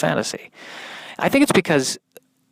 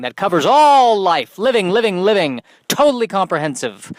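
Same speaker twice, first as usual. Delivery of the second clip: excited; 5 semitones higher, 3 dB louder than usual. Acted. Gushing about full coverage.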